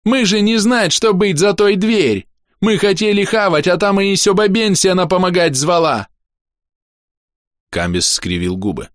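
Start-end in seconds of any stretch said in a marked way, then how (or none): 0.0-6.1 very high, wailing goblin protest; high-pitched frantic goblin excuse; crying goblin. A narrator's reading. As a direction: plead innocence at the top of a goblin voice. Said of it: "внезапно закричал Гобля".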